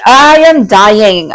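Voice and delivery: slow, emphatic gush; overexcited. Real, not acted. Reader bowled over by the client's reading, overexcited. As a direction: stretch it out, overwhelmed with excitement.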